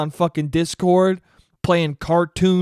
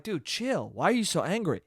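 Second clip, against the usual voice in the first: retold calming reply; 6 dB quieter than usual. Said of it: "And I'm like".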